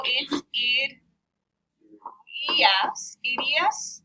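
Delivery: slow, firm, piece by piece; sounding out conjugation. Shown as a demonstration. Teacher joins stem and ending for class, sounding it out. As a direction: build the verb form in separate chunks.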